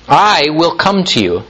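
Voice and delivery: "I" lengthened and emphasized; stress on I. Real, not acted. Preacher quoting Jesus' promise, stress on "I". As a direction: lean firmly on "I", then let it fall. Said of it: "I'm emphasizing Jesus saying this now".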